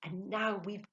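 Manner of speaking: loud, high and drawn-out joy; jubilant, ringing call; merry cry. A narrator's reading. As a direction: cry it out in delight. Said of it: "she cried merrily".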